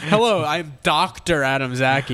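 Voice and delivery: measured, formal doctor introduction; lightly voiced doctor; straight-talking doctor. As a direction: introduce yourself as an important doctor. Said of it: "speak, like, very straight to the point".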